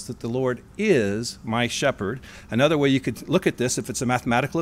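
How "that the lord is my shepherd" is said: "is" slowed and leaned on; slow, deliberate "is"; stress on is. Shown as a demonstration. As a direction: let the word "is" jump off the page. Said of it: "I would like to have jump off the page".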